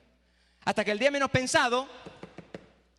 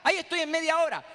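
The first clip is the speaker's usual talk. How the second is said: sugary mother-in-law; 7 semitones higher, faster than usual. Retold or imitated. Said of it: "y dice".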